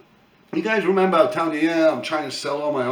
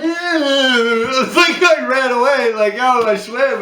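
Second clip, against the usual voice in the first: laughing; 8 semitones higher, 7 dB louder, much slower than usual. Real, not acted. Still laughing after story.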